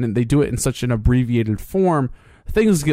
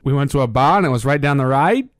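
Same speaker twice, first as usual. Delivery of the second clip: put-on Australian accent. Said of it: "just like Australians when they'll go".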